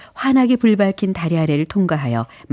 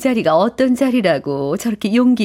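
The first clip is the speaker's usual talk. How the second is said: amused scorn; 5 semitones higher than usual. Acted. Lady guest laughs at him.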